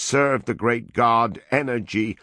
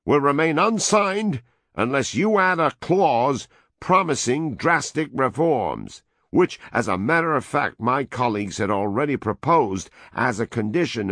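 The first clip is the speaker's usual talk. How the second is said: loud, higher dictatorial demands; raised voice; 6 semitones higher, 3 dB louder than usual. A narrator's reading. American envoy dictating terms to the woman, loud and high. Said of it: "the American raised his voice".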